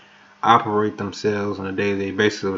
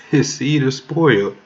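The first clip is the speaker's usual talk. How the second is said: laughing; 5 semitones higher, 5 dB louder than usual. Real, not acted. Preacher laughing at enemies, high laughing repeat.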